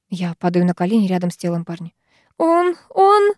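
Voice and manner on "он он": much higher, stammering in shock; trembling. A narrator's reading. Sara stammering over the bodies, shaken and high. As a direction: stutter it out, shaken. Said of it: "трясётся она".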